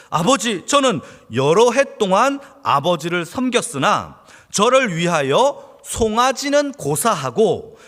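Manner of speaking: elder son bitterly complaining to his father; resentful son. Acted. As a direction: list the grievances with bitter resentment. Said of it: "라고 하면서 화가 난 거예요".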